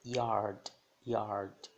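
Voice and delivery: YARD com o Y soando I; som de I. Shown as a demonstration. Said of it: "Som de I". (YARD, Y inicial dito como I)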